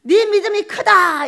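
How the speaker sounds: slow solemn declaration; Jesus declaring. Acted. Jesus telling the woman, slow and solemn. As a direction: pronounce it slowly like a verdict. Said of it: "그랬더니 그 시로".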